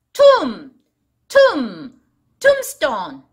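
"tomb, tomb, tombstone" with no B sound; silent B. Shown as a demonstration. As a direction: say "tomb" and "tombstone" ending the first syllable on M. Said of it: "tomb는 비가 묵음이에요".

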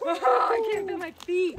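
shrieking from icy water; high, loud cold shock; drenched and cold. Real, not acted. Stepping into icy river.

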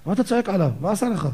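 a hint of a wife defending the student; rebbetzin scolding. Rebbetzin runs in from the kitchen, mildly scolding. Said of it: "הרבנית ... רצה".

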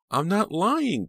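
high, loud denial; frantic insistence. A narrator's reading. Pam denying it to attacker, frantic insistence. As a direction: insist in a high, desperate cry. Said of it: "Pam insisted".

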